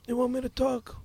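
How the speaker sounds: lightly voiced movie-star impression; a hint of a screen tough; Marlon Brando. Shown as a demonstration. Repeating the line in character, Marlon Brando. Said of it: "Marlon Brando".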